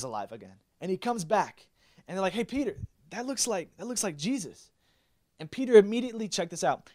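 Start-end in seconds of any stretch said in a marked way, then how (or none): 2.3-4.7 higher-pitched, mildly amazed call; touch of wonder; acted realization. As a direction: call a friend's attention, dawning surprise. Acted disciples spotting risen Jesus.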